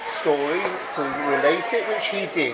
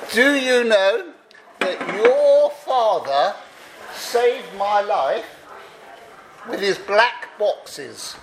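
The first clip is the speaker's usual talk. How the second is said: slow, higher, half-hearted Scottish brogue; a self-confessed poor try at a drunk Scotsman's Scottish accent; attempted Scots accent; 3 semitones higher, slower than usual. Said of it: "I can't do a Scots accent".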